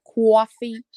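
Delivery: light mimicry of a Brooklyn accent. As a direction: imitate a strong Brooklyn accent. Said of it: "Brooklyn-like accent, so they're like".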